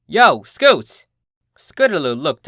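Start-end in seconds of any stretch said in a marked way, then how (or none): 0.1-1.1 loud, high greeting call. Acted. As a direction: hail her from above. Rainbow calls out to Scootaloo.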